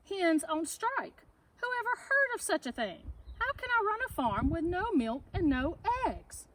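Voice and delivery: high, exasperated rant, pitched well up; furious. A narrator's reading. Farmer ranting about his striking animals, high furious rant. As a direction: rail at the absurd strike. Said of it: "Farmer Brown was furious".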